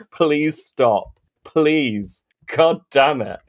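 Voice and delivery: slow, exasperated plea; pained, drawn-out pleading; begging. Real, not acted. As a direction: beg them to stop, one phrase at a time. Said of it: "I'm fucking begging you".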